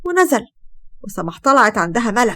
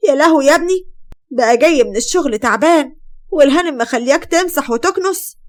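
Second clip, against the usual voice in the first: indignant mother-in-law; 4 semitones higher than usual. Acted. Mother bursts in on her son doing housework, indignant. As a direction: pitch it up in shocked reproach.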